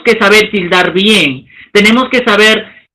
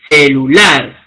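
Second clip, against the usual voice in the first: celular pitched low, syllables measured, weight on final -lar; stress on last syllable; 8 semitones lower, slower than usual. Shown as a demonstration. Teacher demonstrating agudas to students, celular stressed on final -lar. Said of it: "La curva asciende".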